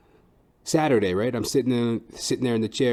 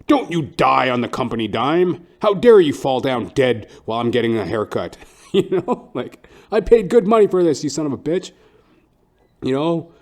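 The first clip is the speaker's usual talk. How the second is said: loud, mock outraged ranting; entitled customer; 5 semitones higher, 9 dB louder than usual. Entitled customer yells at dying barber, mock outrage. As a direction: berate the barber like a spoiled client.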